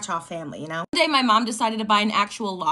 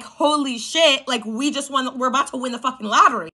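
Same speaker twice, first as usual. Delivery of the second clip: excited disbelief; 3 semitones higher than usual. Retold or imitated. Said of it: "I'm like".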